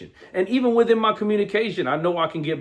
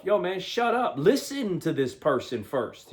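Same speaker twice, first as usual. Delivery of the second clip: softer, muttered to himself; inner voice; 6 dB quieter than usual. Shown as a demonstration. Correcting the take, quietly telling himself to shut up. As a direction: say it under your breath, to yourself. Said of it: "telling myself".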